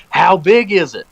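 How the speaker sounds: mock-excited retold question; eager question. Fishing friend asks over the phone how big it is, eagerly.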